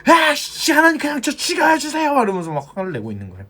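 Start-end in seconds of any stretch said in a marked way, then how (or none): 0.0-2.1 high, exasperated cry of a sulking prophet; angry outburst. Retold or imitated. Jonah shouting at God in fury, high exasperated cry. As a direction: throw it at God like a furious tantrum. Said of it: "막 성을 내고 화내면서".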